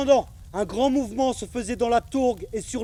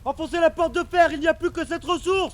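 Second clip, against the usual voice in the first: urgent order; 3 semitones higher than usual. Acted. Soldier commanding at fire.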